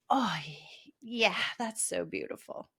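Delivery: soft, hushed wonder at the view; awed hush. Retold or imitated. Waking to the sunrise over the lake, a hushed awed murmur. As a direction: let the words fall away in awe.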